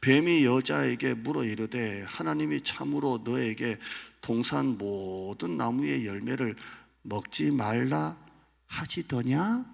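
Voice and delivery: slow, measured reading; scripture reading. Acted. Preacher reading Genesis aloud to the congregation. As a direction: read the verse deliberately. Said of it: "삼 장 일 절 보시면".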